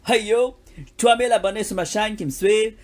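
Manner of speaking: loud English-accented street French. Shown as a demonstration. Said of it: "ça c'est un accent anglais".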